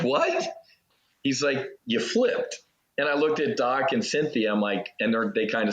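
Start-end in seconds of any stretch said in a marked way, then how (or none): 0.0-0.5 much higher, startled disbelief; shocked what. Retold or imitated. Waking after ceremony, told he flipped, in shock. 1.9-2.6 amused repeat. Retold or imitated. Friend repeats news.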